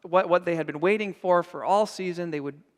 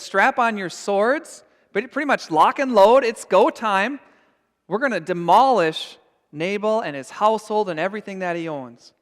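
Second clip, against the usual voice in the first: rally the troops in fury, louder as it goes; furious order; 3 semitones higher, 5 dB louder than usual. Acted. David ordering his men to attack Nabal, building to a furious loud shout. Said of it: "He was furious".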